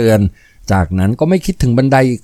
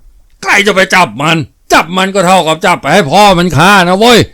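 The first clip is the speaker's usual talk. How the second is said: higher-pitched crowd member's shout; raised voice warning the others; calling out to each other; 5 semitones higher than usual. A narrator's reading. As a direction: call out a defiant refusal. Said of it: "แต่คนข้างล่างร้องบอกกันว่า".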